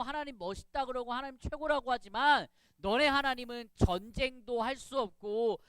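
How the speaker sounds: storyteller's scornful challenge; mock taunting. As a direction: hurl mock insults at a rival army. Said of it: "하나님을 막 욕하는 거예요".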